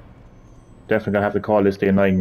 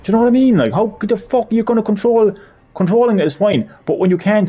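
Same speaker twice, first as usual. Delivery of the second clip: real frustration boiling over; exasperated rant; 9 semitones higher, 4 dB louder than usual. Real, not acted. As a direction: vent at the game, stretching the words. Ranting at awkward controls.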